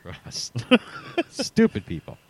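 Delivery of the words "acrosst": quiet "across" ending in a crisp T, acrosst; "across" with final T. Shown as a demonstration. Correcting the co-host's try, "across" with a final T. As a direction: softly add a T after "across". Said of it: "put the T on there".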